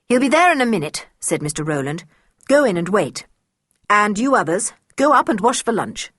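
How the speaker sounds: brisk, loud, fast commands; curt orders. Acted. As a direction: hurry them off with authority. Tutor ordering children.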